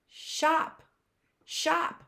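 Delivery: "Shop" said high and bright as one word; teacher revealing the blended word. Shown as a demonstration. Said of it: "What is that word?".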